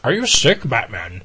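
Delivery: imitated kids'-book bird squawk; squawking bird character. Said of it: "the character's just squawking".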